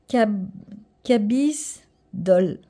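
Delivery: Cabby's Doll House spoken very slowly in a self-mocking English accent. Shown as a demonstration. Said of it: "Mon accent est magnifique".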